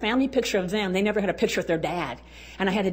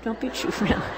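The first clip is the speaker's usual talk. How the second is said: laughing. Shown as a demonstration. Repeats joke laughing.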